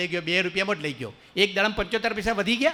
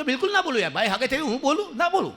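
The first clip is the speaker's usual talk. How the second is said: pitched up, eager, lisping promise; a lisping groom squeaking high; lisping groom swears he won't talk, high; high mock stammerer; 5 semitones higher than usual.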